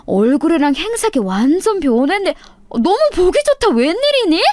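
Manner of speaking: high, gushing classmate voice, overly sweet; a show-off old classmate faking delight at the reunion; fake-friendly classmate. 동창 가인의 과장된 인사. (과장되게 반가운 척하는 높은 목소리)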